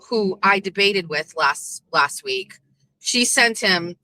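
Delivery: ordinary talk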